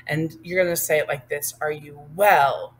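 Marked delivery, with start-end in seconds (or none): 1.6-2.7 louder, slow and firm; strong. Shown as a demonstration. Teacher showing how to say it, strong delivery. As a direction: say it strong, a little slowly. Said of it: "Like strong".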